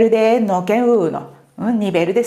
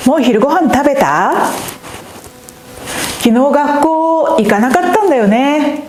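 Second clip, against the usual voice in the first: cute casual Japanese; 3 semitones higher, 5 dB louder than usual. Shown as a demonstration. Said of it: "lo quitamos por ser kawaii".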